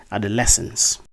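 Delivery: adolescence with LES stressed, short e; correct pronunciation. Shown as a demonstration. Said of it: "the word is actually pronounced as".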